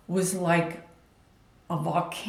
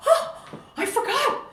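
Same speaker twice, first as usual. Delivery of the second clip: high, huffy mother brushing it off with a laugh; mother laughing off her mistake in a huff. Retold or imitated. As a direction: toss it off as if caught out and annoyed. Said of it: "in a huff".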